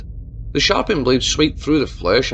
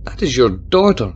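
gasped; 5 dB louder than usual. Acted. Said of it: "she gasped".

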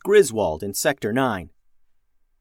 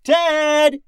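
very high, drawn-out holler; long, exasperated yell; yelled name; 6 dB louder than usual. A narrator's reading. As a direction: holler for a missing crewmate. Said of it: "she yelled".

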